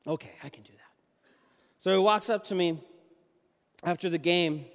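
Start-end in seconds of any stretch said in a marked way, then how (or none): 0.1-0.8 quiet, low, half-whispered reply; hushed, reluctant boy's okay; retold timid agreement. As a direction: agree softly, barely voiced, as the nervous boy. Timid boy agrees to coach.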